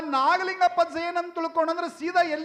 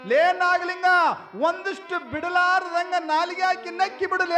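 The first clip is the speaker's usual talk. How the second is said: calling out; 4 semitones higher, 4 dB louder than usual. Acted. Old man calls to his companion.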